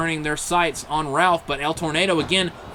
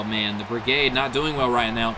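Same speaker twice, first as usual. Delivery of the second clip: normal talking voice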